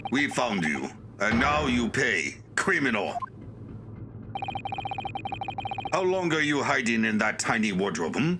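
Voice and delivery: lightly attempted Russian accent; amateur Russian accent for a game character; stern accuser with a hint of Russian accent. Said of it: "I don't think I can do a Russian accent".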